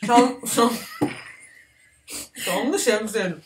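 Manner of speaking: stumbling with a full mouth; cheeks stuffed full. Real, not acted. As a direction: trip over words round the food. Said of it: "Emiyorum şu an var".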